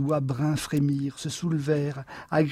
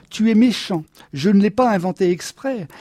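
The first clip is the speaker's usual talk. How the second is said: louder, higher wounded protest; raised, reproachful wife's voice; hurt protest; 4 semitones higher, 6 dB louder than usual. A narrator's reading. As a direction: protest as if unfairly accused. Wife protests husband's scorn.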